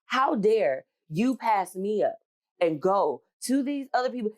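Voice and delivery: slow, high, indignant demand; indignant how dare. Retold or imitated. A passed-over employee retells her anger at the company, slow and indignant. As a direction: drag out how dare you, offended. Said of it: "I was mad as hell".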